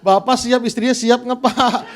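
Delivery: loud, laughing through the question; laughing tease. Real, not acted. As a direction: tease the congregation while cracking up. Tertawa sambil menggoda jemaat. (menggoda jemaat sambil tertawa keras)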